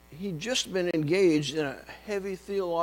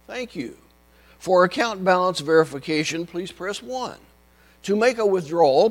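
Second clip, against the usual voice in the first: phone menu voice; 2 semitones higher, 5 dB louder than usual. Retold or imitated. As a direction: drone through the menu options. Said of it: "It went something like this".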